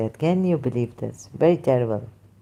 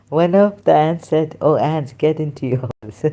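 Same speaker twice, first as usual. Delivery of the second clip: same verse reread with laughter still in it; laughing reread. Real, not acted. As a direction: reread it, still chuckling at the slip. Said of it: "I'm laughing at myself".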